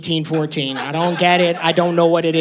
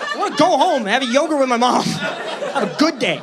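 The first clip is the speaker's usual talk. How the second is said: 1 whiny plea; 7 semitones higher than usual. Retold or imitated. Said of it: "whiny mock plea".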